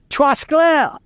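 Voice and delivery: high, drawn-out farmer's holler; acted yell. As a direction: call out to a mule like a Cajun farmer. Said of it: "he yells out".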